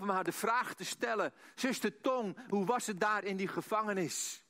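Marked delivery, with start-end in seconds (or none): 1.5-4.4 higher-pitched, declaimed question; raised, emphatic question. Retold or imitated. Interviewer faces Sister Tong with the dreaded question, raised and emphatic.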